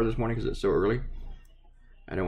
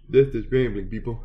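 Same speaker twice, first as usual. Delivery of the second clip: This is rambling, said louder with a falling end; louder announcement; 2 semitones higher, 4 dB louder than usual. Shown as a demonstration. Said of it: "This is how you ramble".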